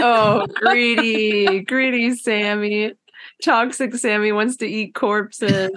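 lightly voiced cooing mom, drawn-out start; a hint of baby talk, teasing. Friend teasing Sammy about eating corpses, light mommy baby talk. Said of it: "sounded like a mom talking to her baby".

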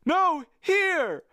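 high, loud rasping call; rasped cry. A narrator's reading. Second crewman correcting the first, rasped shout. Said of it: "another rasped".

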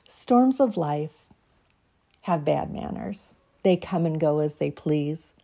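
measured, reflective poem reading; reading her poem. Acted. Reading her Christmas piece to podcast listeners, reflective.

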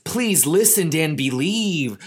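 pleading gnome. Acted. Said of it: "Hap echoed".

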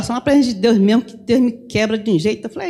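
normal talking voice

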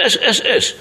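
high, urgent repeated cry of alarm; urgent warning. Retold or imitated. Rabbi warning someone touching the Torah scroll, urgent cry. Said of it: "אומר לו".

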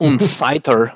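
mock German accent. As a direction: say it with a light, playful German accent. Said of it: "I said that in a German accent".

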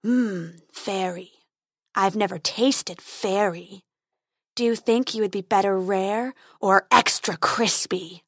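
slow, lightly menacing dragon drawl. Acted. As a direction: savour the threat like a bored beast. Dragon toying with fairy.

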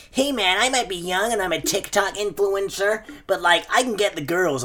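lightly put-on young influencer voice; Pete. Podcaster mimicking a young contestant, mock-cocky. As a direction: mimic a cocky TikTok lad. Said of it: "that Pete guy in it, he's like".

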